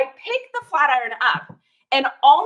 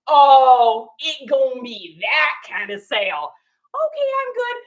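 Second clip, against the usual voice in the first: mock surprise; 5 dB louder, slower than usual. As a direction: act taken aback, then bow out. Reacting to pricey sale.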